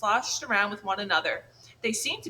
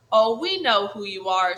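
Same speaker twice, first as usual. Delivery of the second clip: sarcastic; 7 dB louder than usual. Acted. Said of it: "Her voice dripped with sarcasm".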